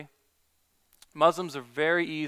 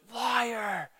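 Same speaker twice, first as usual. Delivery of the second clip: much higher, sharp accusation; accusing shout; 7 semitones higher, 3 dB quieter than usual. Retold or imitated. Angry man in the crowd accusing the preacher, higher sharp cry. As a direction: fling the word at the speaker. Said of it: "all of a sudden he was like".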